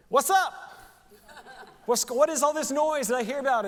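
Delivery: a beggar curious at the noise; blind beggar calling. Acted. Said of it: "he's like".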